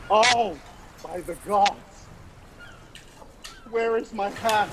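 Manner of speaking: high, loud, panicked cry for a lost hat; high panicked yell, stretched slow; frantic pirate yelling. Acted. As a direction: shout like a frantic castaway. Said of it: "and he's like".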